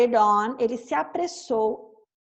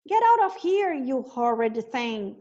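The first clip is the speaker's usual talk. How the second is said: shouting. Acted. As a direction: chase the wolf out angrily. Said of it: "she cried".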